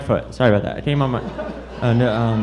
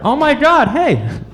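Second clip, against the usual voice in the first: a high, squealing burst of horse excitement; whinny it out like a thrilled horse; excited horse; 10 semitones higher, 3 dB louder, slower than usual. Acted. Comic doing an excited horse for the crowd: high squealing whinny. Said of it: "That's my impression of an excited horse".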